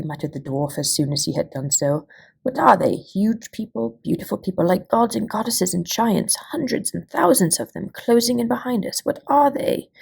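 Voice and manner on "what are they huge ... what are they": much higher, rising with astonishment; awed and uneasy, pitched up high; alarmed wonder. A narrator's reading. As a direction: gasp it out as strange giants close in. Dwarf sees the approaching tree-people.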